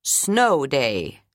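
a flat echoing repeat. Acted. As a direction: repeat it like an echo. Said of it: "like an echo".

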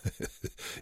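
soft, breath-only chuckle; quiet character chuckle; low laugh. A narrator's reading. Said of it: "Wernicke laughed".

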